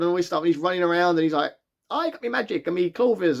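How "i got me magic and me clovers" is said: put-on light stereotype Irish accent, slightly higher; playful mock Irish leprechaun boasting. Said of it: "He's really upping the Irishness of it".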